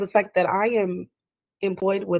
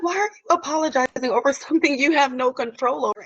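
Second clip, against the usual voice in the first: imitating boss; 6 semitones higher than usual. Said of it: "she's like".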